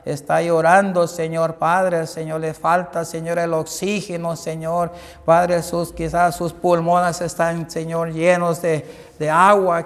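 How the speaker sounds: a preacher's closing prayer, calling on Señor; fervent prayer. Acted. Pastor praying over a viewer in need, fervent prayer. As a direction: pray earnestly over the listener.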